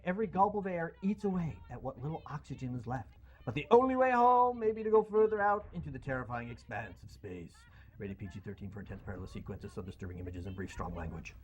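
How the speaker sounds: dramatic movie-trailer read; trailer voiceover. Acted. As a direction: narrate it like a film trailer. Reads Gravity synopsis.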